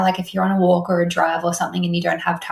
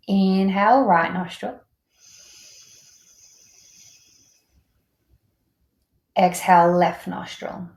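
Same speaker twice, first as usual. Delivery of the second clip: breathing-exercise cues with long pauses; spaced, unhurried instructor counting out inhales and exhales; guided breathwork. Acted. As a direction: guide them breath by breath, leaving room after each cue.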